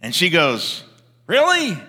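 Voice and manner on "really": mock surprise. Woman answers the neighbour.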